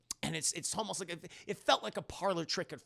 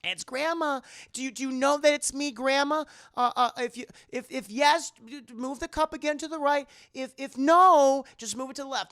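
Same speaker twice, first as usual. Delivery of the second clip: hammed-up delighted grandmother; overjoyed grandma; 10 semitones higher, 9 dB louder than usual. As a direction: greet a lost grandchild's spirit with overwhelming joy. Grandmother overjoyed at spirit's arrival.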